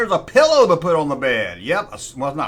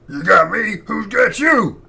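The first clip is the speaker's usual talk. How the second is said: rising into a higher, loud, startled shout; a shocked heroine yelling in disbelief; Lois Lane impression; 4 semitones higher, 5 dB louder, slower than usual. Superman catches Lois, she shouts back, higher and startled. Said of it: "it wasn't that bad of an impersonation of her".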